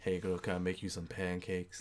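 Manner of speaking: low, quiet morning voice. Speaker showing a listener what their morning voice sounds like: low morning voice. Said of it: "you get that like low voice".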